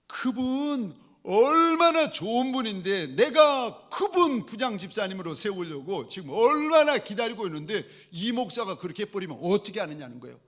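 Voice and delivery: indignant protest, high and stretched at first, then rushing; retold indignation. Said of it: "화가 나가지고 언짢아서 막 꼬치꼬치 묻는 거예요".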